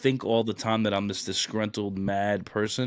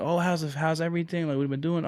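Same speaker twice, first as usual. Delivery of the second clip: higher-pitched imitation of friendly small talk; chatty catching-up; 7 semitones higher, faster than usual. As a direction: voice an old acquaintance eagerly catching up. Woman catching up in retold reunion.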